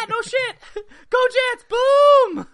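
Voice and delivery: put-on very high shouting New York kid. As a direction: squeak out a loud Jets cheer. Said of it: "he's probably a Jets fan".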